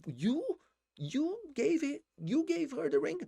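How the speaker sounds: high, slow, stunned rising question; Ross's shocked question. Retold or imitated. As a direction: gasp out the question in disbelief. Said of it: "ele fala assim".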